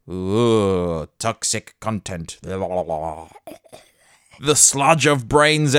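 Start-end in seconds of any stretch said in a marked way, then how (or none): 0.1-2.4 mocking ooh. Mocking the word toxic.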